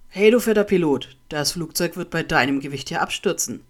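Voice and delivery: mock the victim loudly, opening with a shouted call; jeering. A narrator's reading. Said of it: "höhnte André". (laut höhnend)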